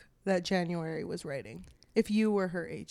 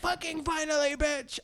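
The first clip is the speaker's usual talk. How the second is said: excited cheer; 7 semitones higher than usual. Real, not acted. Cheering the kiss.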